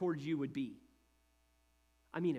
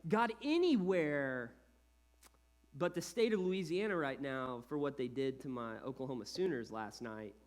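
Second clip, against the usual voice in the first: sulky prayer; 3 semitones lower than usual. Retold or imitated.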